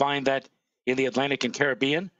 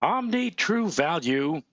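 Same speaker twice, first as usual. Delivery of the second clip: hoarse voice; slower than usual. Real, not acted. Weatherman losing his voice on air, hoarse. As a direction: voice cracking and going hoarse. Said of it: "You hear that voice?".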